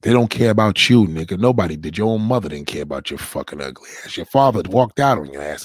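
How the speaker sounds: loud, furious tirade hurled at the screen; furious shout. Real, not acted. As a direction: tear into him at full volume. Yelling back at a clip.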